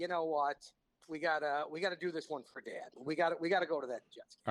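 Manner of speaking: ordinary delivery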